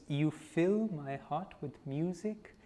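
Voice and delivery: measured reading with lilting rises; lyric recitation. Real, not acted. Leader reads the group the song before singing it, lyric recitation. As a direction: recite it line by line as devotional verse.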